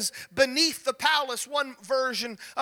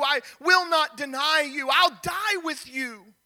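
higher, pressing, passionate promise; vehement vow; 3 semitones higher than usual. Acted. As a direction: swear it like your life depends on it. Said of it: "Peter vehemently, he would speak".

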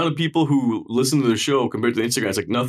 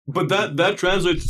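mouth full; 5 semitones higher, slower than usual. Real, not acted. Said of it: "sorry for speaking with my mouth full".

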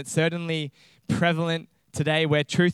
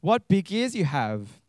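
slow, lightly voiced little girl; Little Red Riding Hood; 3 semitones higher than usual. Girl marvels at disguised wolf's ears, slow girlish voice. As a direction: draw it out like a wondering child. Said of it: "Little Red Riding Hood said".

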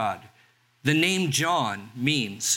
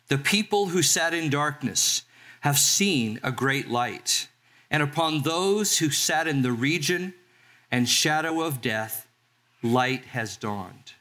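scripture reading. Acted. Pastor reads Matthew aloud.

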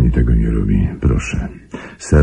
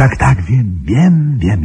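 higher, hurried rush of yeses, brushing her objection aside; agitated cutting in; 11 semitones higher, slower than usual. Acted. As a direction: jump in fast before she can finish. Cuts off Mary's protest. (nerwowo, przerywając jej)

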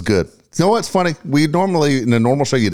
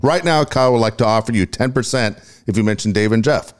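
talking around a wad of tobacco; chewing tobacco. Real, not acted. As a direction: mouth full of dip. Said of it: "I put so much tobacco in my mouth".

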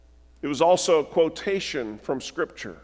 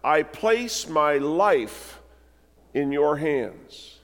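slow, drawn-out final prayer; Jesus' last prayer; slower than usual. Acted. Preacher voicing Jesus' last words, slow and solemn. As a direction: give each word weight, slowly. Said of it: "Jesus called out loudly".

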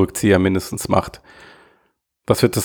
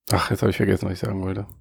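trailing off; 2 semitones lower, 7 dB quieter, faster than usual. Real, not acted. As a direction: voice fading away to nothing. Forgets his point mid-sentence.

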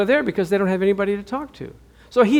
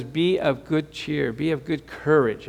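gentle reassurance; 2 semitones lower, 6 dB quieter than usual. Acted. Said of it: "But God says".

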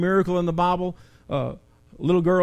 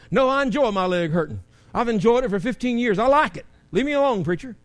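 sarcastic stubbornness; 5 semitones higher, 4 dB louder than usual. Pretend. Mock stubborn member answers pastor.

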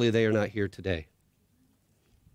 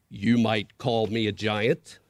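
very slow, lower, grand voice; large, deep voice. Acted. Unseen creature answers the scared boy, slow and grand. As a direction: speak slowly, vast and calm. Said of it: "said the large voice".

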